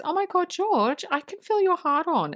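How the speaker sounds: high-pitched mock girlfriend voice; imitated woman's exclamation. Acts Maya's exclamation while cuddling George.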